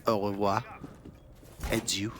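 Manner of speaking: au revoir and Adieu in a weak French accent. Shown as a demonstration. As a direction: say au revoir like a bad French speaker. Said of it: "my French accent is terrible".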